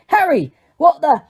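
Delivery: sudden high startled cry. Acted. Hagrid startled finding Harry in the dark, blurting. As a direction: caught off guard, blurting it out.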